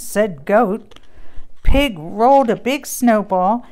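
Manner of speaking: lively storybook read-aloud with character voices; reading to children. Acted. Mom reading a Christmas book to kids. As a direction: read it like bedtime story time.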